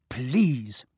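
breathless whispered plea. Acted. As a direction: hush it so Filch won't hear. Hiding from Filch.

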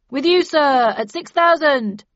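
loud, slow auctioneer's pitch. A narrator's reading. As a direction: sell the lot to the room. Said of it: "announced the auctioneer".

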